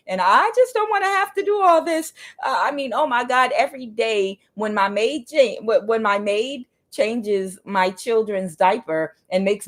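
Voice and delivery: high, whiny spoiled voice, hammed up; a lightly voiced spoiled complainer; mock pampered whiner. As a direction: poke fun at a spoiled complainer.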